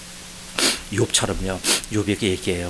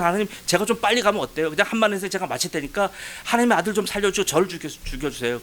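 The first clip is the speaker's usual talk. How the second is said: raised-pitch bargaining prayer, easing down at the end; retold pleading; 5 semitones higher than usual. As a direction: reenact pleading with God to take you instead. Acted bargaining plea to God. (대신 죽겠다고 간청하는 기도 재연)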